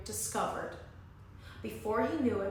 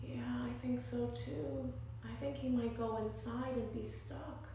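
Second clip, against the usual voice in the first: hushed agreement; 7 dB quieter than usual. Real, not acted. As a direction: lean in and share the secret. Reader agrees with children.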